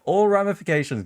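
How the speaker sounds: mock astonished yelp at the phrase; incredulous repeat. Real, not acted. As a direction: echo it like you can't believe it. Mocking the scammer's phrase.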